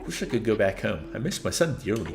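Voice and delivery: lightly voiced Doc Brown type; Christopher Lloyd. Lonely inventor greets a stranger, lightly voiced Doc Brown. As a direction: read it with a hint of an eccentric inventor. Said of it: "should I do a Christopher Lloyd voice?".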